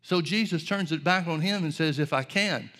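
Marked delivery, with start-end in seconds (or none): 2.0-2.7 lightly sarcastic retort; understated, wry challenge; a little sarcasm. Retold or imitated. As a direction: turn it back with a touch of irony. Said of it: "a little bit of sarcasm".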